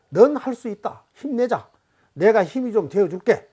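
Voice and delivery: encouraging. Acted. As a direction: cheer on someone worn out. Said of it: "이런 격려의 말을 해주자는".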